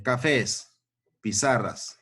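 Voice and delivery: "cafés" drawn out slowly; slow dictation. Shown as a demonstration. Teacher dictating slowly to pupils. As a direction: stretch "cafés" for the class. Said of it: "Puede ser dos o más".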